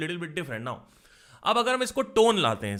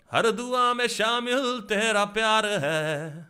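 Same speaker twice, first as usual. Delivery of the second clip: slow sung line in a singer's style; 4 semitones higher, slower than usual. Shown as a demonstration. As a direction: sing it the way that singer would. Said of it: "Atif की तरह".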